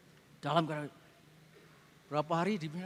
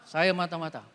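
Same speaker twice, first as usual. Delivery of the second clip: robotic confession; 5 semitones lower than usual. Retold or imitated. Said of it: "Seperti robot".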